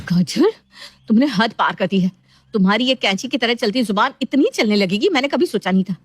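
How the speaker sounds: mildly fuming, firm reproach; angry rebuke. Acted. Daughter-in-law banging pots at sister-in-law, mild anger. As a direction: call her out with a touch of anger. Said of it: "Neha का पारा high हो जाता है".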